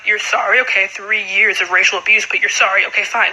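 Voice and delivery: low, dry sarcasm, "sorry" rising in disbelief; unimpressed by his apology; sarcastic reply. Retold or imitated. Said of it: "And I'm like".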